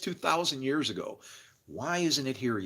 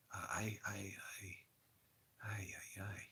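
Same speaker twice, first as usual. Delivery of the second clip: mock stammer; 4 semitones lower, 19 dB quieter than usual. Stammering at the great epiphany.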